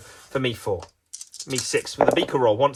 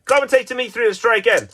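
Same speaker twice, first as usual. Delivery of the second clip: announcer handover; 8 semitones higher, 5 dB louder, faster than usual. Pretend. Commentator calls on co-commentator again.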